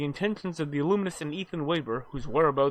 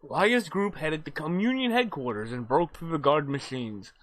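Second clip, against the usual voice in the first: story recap narration. Acted. Reads the game's story recap.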